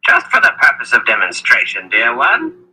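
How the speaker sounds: put-on high, sly old wizard. Wizard Zed speaks.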